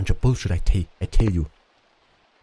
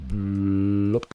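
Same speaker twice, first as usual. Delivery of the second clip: drawn-out bloop noise; 2 semitones lower than usual. Pretend. Imitates noise while placing item.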